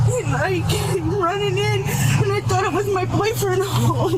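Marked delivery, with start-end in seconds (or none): 0.1-2.6 slow, crying words; sobbing and pushing it out; real crying. Real, not acted. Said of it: "still upset after the rescue".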